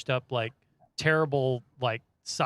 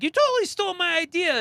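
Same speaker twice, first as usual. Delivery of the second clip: whiny accusation; 4 dB louder than usual. Retold or imitated. The kid accuses the writer.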